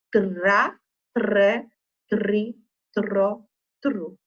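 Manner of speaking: TRA, TRE, TRI, tro, tru spelt out with a pushed tapped R; forced R. Shown as a demonstration. Teacher showing pupils the tra family, forced R. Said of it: "dando essa forçadinha no R".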